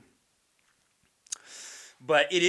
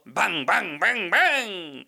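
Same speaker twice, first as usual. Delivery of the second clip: higher, ringing fake-Chinese syllables, last one stretched; mock Chinese voice; 5 semitones higher, 4 dB louder, much slower than usual. Comic showing sitcom actors' filler joke, mock Chinese voice. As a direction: imitate a crude sitcom Chinese voice. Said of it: "that's their Chinese voice".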